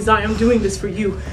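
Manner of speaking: slowed, deliberate retelling of the killer; slow killer quote. Retold or imitated. Witness quoting the killer to the interviewer, slow and deliberate. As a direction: draw it out a little as the laughing killer. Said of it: "He was going".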